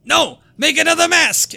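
high, loud imitation of stubborn producers; mock shouted order. Host imitating producers rejecting the old mask, mock shout. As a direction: shout it as a hammed-up refusal.

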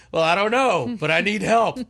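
high, loud imitated plea; flustered wife. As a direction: mimic a wife escalating in a back-and-forth. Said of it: "we go back and forth like this".

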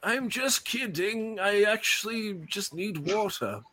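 innocent captive voice. Acted. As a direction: sweetly plead to be let out. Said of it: "I'm gonna go".

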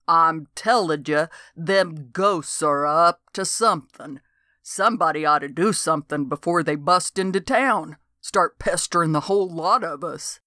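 a lightly voiced old country geezer, insistent; stubborn old man pressing his point; old coot Dode. Old man warns the sheriff about ghosts, insistent.

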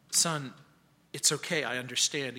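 soft, low, reassuring surgeon; hushed, low comfort; gentle consoling. Retold or imitated. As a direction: quietly reassure a wounded patient. Surgeon consoles weeping soldier.

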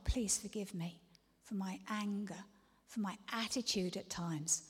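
soft, hushed pleading; whispered plea. Acted. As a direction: beg forgiveness quietly. Whispered repentance prayer.

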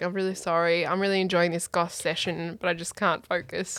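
soft, low-key apology; subdued apology, quoted. Retold or imitated. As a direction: murmur a mild, dejected apology. Quoting his apology in goth session.

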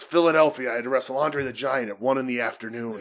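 a light imitation of Jake's storytelling voice; lightly voiced old wrestler telling his war story. Retelling Jake's Andre story to a co-host, lightly in Jake's voice. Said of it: "Doing the Jake voice is hard".

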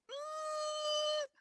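drawn-out, pained high apology; mock pained apology. Improv teller refusing a customer's check, pained and slow. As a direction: wince and stretch it out, full of regret.

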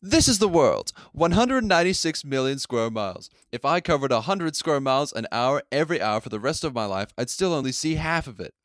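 lightly voiced Malcolm, a touch brighter; Malcolm impression. Shown as a demonstration. Asked for a real accent, retakes the monologue as Malcolm. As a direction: give the opening monologue as Malcolm. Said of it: "I want a genuine Malcolm impression".

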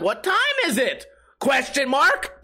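high rising question lilt, slowed; question inflection. Shown as a demonstration. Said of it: "that weird inflection when you're asking a question".

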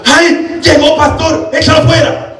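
very high, loud frantic cry; frantic high old lady shriek, with a laugh; panicked old lady. Retold or imitated. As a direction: shriek for the pastor to cast it out.

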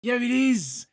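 high, loud, drawn-out protest; emphatic insistence. Real, not acted. Defending Sonic two to co-host, emphatic insistence. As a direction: insist loudly, stretching the words right out. Mock argument over Sonic movie.

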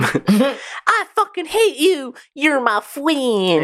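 high, slow, laughing imitation; slow high mock quote through laughter. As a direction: drag it out while laughing.

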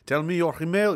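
put-on light French accent on a short line. Host quoting the old French guy, French accent. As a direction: slip back into a slight French accent. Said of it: "Please read this with a French accent".

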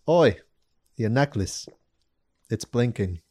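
lightly put-on British accent; fake British accent. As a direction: chat someone up in a mock British accent. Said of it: "You're just using a fake accent".

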